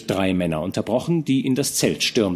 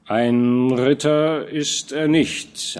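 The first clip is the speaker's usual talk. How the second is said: smiling; 4 semitones higher, much slower than usual. A narrator's reading. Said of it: "antwortete Fronsberg lächelnd".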